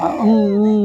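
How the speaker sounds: mock crying hum; imitated crying. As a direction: imitate someone whimpering in a drawn-out hum. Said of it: "dia nangis".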